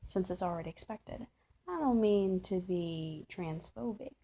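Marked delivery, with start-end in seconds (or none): 1.7-4.1 slow mock disclaimer. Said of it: "So here it comes".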